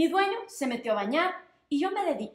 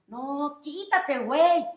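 annoyed brush-off; 3 dB louder, much slower than usual. Acted. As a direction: shoo the dog off with mild annoyance. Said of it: "me dijo Carlos enojado".

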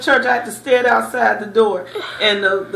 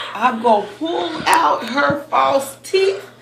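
mom's threat; 3 semitones higher than usual. Retold or imitated. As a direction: play furious mom, half laughing. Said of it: "And Mom said".

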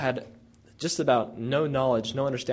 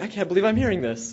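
higher and louder, a retold disbelief; astonished; 8 semitones higher, 5 dB louder than usual. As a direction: sound amazed at what the women say. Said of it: "I could see the surprise in his face".

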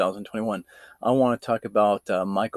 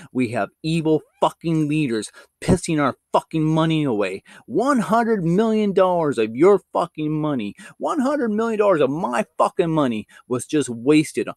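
higher-pitched angry tirade; furious rant; 5 semitones higher than usual. Real, not acted. YouTuber raging at leaders over wasted money, furious. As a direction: spit it out in real outrage.

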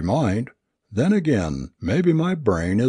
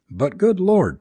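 higher, taken-aback exclamation; startled protest; 10 semitones higher than usual. A narrator's reading. Friend reacts to Tristan's plan to go out, startled protest. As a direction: burst out in disbelief.

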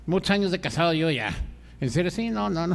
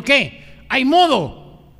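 louder, higher, drawn-out hopeful ask; eager proposition; 5 semitones higher, 5 dB louder, much slower than usual. Retold or imitated. Husband propositions his wife, hopeful and eager. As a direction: play an eager husband angling for it.

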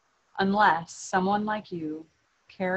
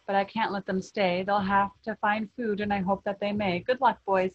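a small guardian snapping at the factory owner; Lorax snapping. Acted. Lorax scolding the Onceler at his office door, snapping. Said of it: "He snapped".

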